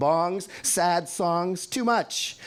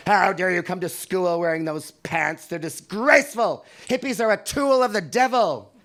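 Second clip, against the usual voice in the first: teacher scolding; 5 semitones higher, 6 dB louder than usual. Retold or imitated. Teacher scolding about bell-bottoms.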